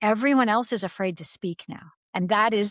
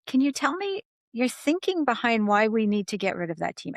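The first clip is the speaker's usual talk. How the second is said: calm; 2 semitones higher than usual. Retold or imitated. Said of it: "And I said it calmly".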